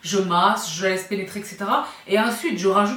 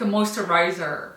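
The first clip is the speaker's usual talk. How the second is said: English word in an American accent; "moisturizer" with attempted American pronunciation; 3 semitones lower, slower than usual. Shown as a demonstration. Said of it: "c'est l'accent américain".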